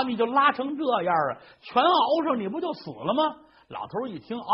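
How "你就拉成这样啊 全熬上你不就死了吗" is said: mild near-tears. Acted. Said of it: "老太太都快哭了".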